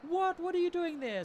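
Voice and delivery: high, loud startled what; retold shock. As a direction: friend stunned to find me at his door, shocked high cry. Friend stunned at surprise visit.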